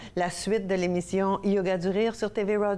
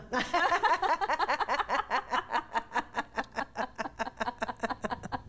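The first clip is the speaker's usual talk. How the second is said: high laugh that fades softer; demonstration laugh in German; 6 semitones higher, 5 dB quieter than usual. Shown as a demonstration. Host leading partner in laughing "in German", deliberate fading laughter. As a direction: start high, let the put-on laugh die away. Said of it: "on rit en allemand".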